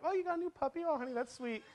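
put-on high, soft cooing to a child; indulgent dad. Dad to daughter about a supposed stuffed animal, sweet indulgent coo. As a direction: humour a little one sweetly and softly. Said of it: "I'm like".

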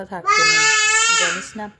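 high taunting jab; a sing-song dig; mocking question. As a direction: needle her with it. Tania taunting Indu.

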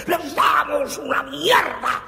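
bramido agudo y lento. Acted. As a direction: bramar con desprecio. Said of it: "bramó don Arce". (bramido furioso de jefe)

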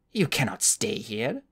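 slow, curt announcement; abrupt announcement. Acted. The old woman telling Flamel to leave, slow and curt. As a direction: lay it down flatly, no welcome. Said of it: "announced abruptly".

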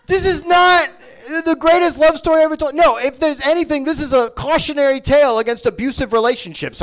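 hammed-up moralizing declaration; mock indignation. Comedian lecturing the crowd about the movie, in mock outrage. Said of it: "mock-preachy rant".

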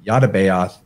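"Yadabaoth" with no L, starting "YAH-da"; variant pronunciation. Shown as a demonstration. Offering listeners one way to say the Gnostic god's name, variant pronunciation "Yadabaoth" without an L. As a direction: say "Yadabaoth" as YAH-da-BAY-oth. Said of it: "lot of ways you might pronounce it".

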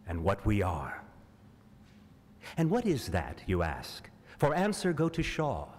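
rhetorical recital, questions lifted and answers falling away; dramatic poem reading. Acted. Actor reads a poem asking why Mars, dramatic recital. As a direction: declaim it in measured, pause-set phrases.

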